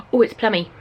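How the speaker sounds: thrilled at the colour; excited. Real, not acted. Delighted at the lipstick colour.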